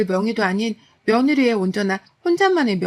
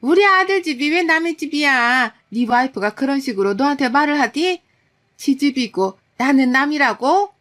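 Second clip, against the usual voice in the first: higher, louder indignant mother-in-law voice; angry mother-in-law; 4 semitones higher, 3 dB louder than usual. Retold or imitated. Mother-in-law snapping back at her son, indignant. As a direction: scold like an offended mother-in-law, slowing at the end. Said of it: "어머님은 그러셨어요".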